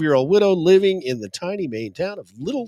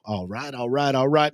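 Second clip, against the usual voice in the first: Matthew McConaughey; 5 semitones lower than usual. Retold or imitated. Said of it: "other than Matthew".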